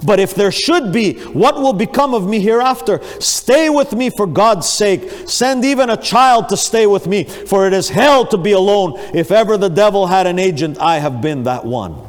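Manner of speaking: preacher voicing a dying man's fear; fearful pleading. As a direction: beg in dread of the hereafter.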